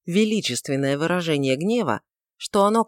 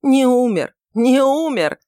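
sharp, loud, high repetition; louder, higher, cutting repeat; sharply; 8 semitones higher, 7 dB louder, slower than usual. A narrator's reading. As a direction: snap the words out in anguish. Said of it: "повторил он резко".

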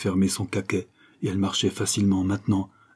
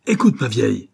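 louder, a threatening warning; a husband's lightly voiced growl of a threat; menacing roar; 3 semitones higher, 6 dB louder than usual. A narrator's reading. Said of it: "rugit Higginbotham menaçant".

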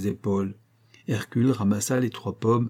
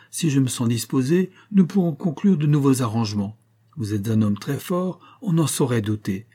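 smug giant Atlas; 4 semitones higher than usual. Acted. Giant smugly tells Hercules to carry the sky for ages. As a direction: gloat as you hand over the burden. Atlas taunts, keeping apples.

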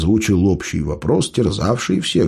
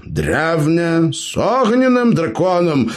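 высокое «огненным», нарочито разжёванное, как малышу; ironic, as to a child; 10 semitones higher, slower than usual. Acted. Gnome explains to the elf, ironic as to a child. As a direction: explain «огненным драконом» slowly as to a toddler. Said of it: "иронично, как малышу, объяснил".

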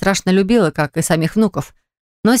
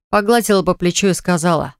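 usual speaking voice

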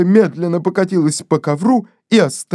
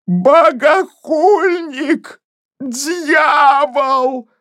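higher, shrill, slow shriek; shrieking curse; 8 semitones higher, much slower than usual. Acted. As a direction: screech the accusation. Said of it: "взвизгнула Денти". (Денти визжит на гостя, высоко и громко)

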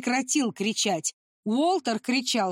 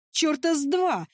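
a higher, understated angry cry; furious shout; 6 semitones higher than usual. Acted. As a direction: spit it back at him. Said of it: "яростно закричала Николь". (яростный крик, голос выше)

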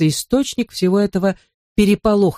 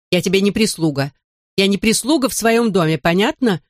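proud, higher angry retort; indignant yell; 4 semitones higher than usual. Acted. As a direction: yell back in offended pride. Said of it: "завопила мисс Глаз Зелёная".

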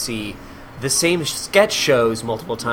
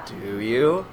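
doubtful adult. Acted. Doubting reply to eager kid.

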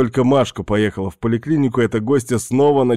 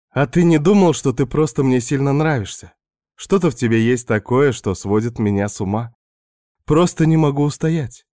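higher, teasing seductress voice; Svetka's voice; 4 semitones higher than usual. Acted. Narrator voicing Svetka tempting the married man, higher teasing voice. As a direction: play the pushy houseguest luring him in.

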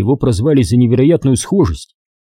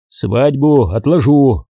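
slow, deliberate; slower than usual. Acted. Colonel decides firmly.

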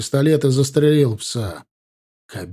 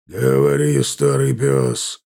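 barked order; slower than usual. Acted. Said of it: "рявкнул на него одноглазый".

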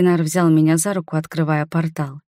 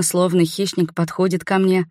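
ordinary delivery, nothing marked

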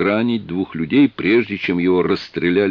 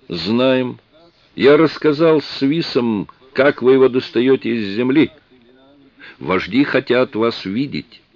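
alien voice; 5 semitones higher than usual. Acted. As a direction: speak as the alien, steady. Vzlik answers the captain.

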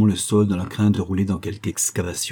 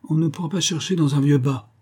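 higher-pitched, simple-minded character voice; silly, higher voice for a dim crook; dim-witted brute; 7 semitones higher than usual. A narrator's reading. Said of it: "dit de son air bête Tinguy".

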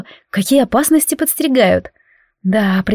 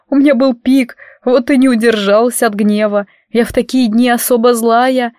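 tearful werewolf woman; 2 semitones higher than usual. Acted. Guest sobbing pleas.

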